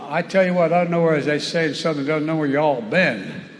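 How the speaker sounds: hammed-up Southern twang; Southern accent. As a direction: lay on a Southern accent to win the crowd. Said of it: "debuts his Southern accent".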